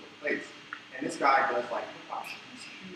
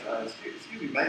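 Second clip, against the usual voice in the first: lightly attempted South African accent; badly faked South African, polite interruption; terrible South African accent; 2 semitones higher than usual. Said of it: "this is a terrible accent".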